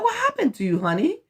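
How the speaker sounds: high, tender worried mother; worried mom calling. Retold or imitated. Mother asking her hurt son, high and worried. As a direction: ask like a frightened mom, high-pitched. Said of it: "I'm like".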